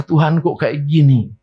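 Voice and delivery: high, slow, whining plea that keeps climbing; mock a believer grumbling at God, rising to a wail; whiny complaint to God. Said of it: "kita merasa".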